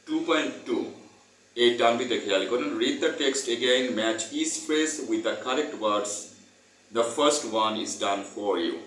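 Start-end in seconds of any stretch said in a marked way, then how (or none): 2.8-8.7 very slow, word-by-word textbook reading; reading aloud. Acted. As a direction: dictate it slowly so students can follow. Reads textbook instruction aloud.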